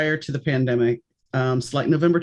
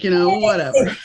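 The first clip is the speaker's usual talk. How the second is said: put-on real New Orleans accent; 3 semitones higher, 4 dB louder than usual. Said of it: "it was more like".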